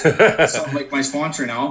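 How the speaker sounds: chuckling through "that's not like my sponsor now"; laughing. Real, not acted. Sharing with the group, laughing while joking about the sponsor. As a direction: let a real laugh break into the words.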